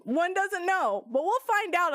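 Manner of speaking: slow, drawn-out teaser voice; mock ominous. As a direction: tease it like a cliffhanger.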